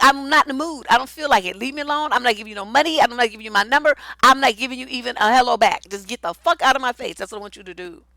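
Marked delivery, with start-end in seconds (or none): none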